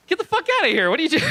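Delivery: high, loud laughing yell; mock outraged yell. Woman yelling at the comic who barged into her bathroom, high and loud. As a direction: throw him out, half laughing. Dominatrix yells at him.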